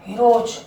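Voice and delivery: "हीरोज" closed on a j; final J sound. Shown as a demonstration. Teacher showing what follows OE, final J sound. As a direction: say "हीरोज" as hee-roj. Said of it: "हीरोज नहीं बोलते".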